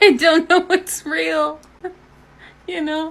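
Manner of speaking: high, loud, desperate laugh-crying breakdown.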